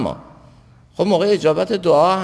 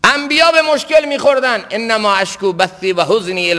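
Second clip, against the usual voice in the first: high-pitched sermon proclamation; impassioned preaching; 7 semitones higher than usual. Real, not acted. Preacher citing the prophets' complaint to God, impassioned. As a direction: proclaim it to the congregation.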